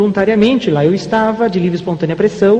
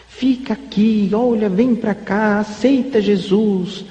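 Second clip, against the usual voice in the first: coaxing churchgoer; much slower than usual. Retold or imitated.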